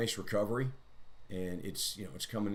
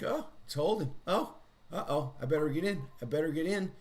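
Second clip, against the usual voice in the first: higher, louder mock panic of eager buyers; anxious buyers; 8 semitones higher, 4 dB louder than usual. Trader mocking eager buyers in a high, louder panic. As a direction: play the nervous crowd rushing to buy in. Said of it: "a lot of people that are like".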